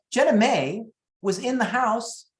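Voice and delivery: ordinary talk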